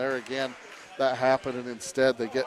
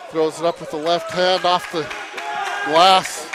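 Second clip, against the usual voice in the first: play-by-play. Acted. Live basketball play-by-play.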